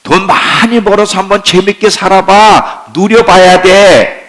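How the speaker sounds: preacher voices the world luring believers, pushy. Acted. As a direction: urge them to enjoy everything now. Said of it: "세상에 계속 소리를 쳐요".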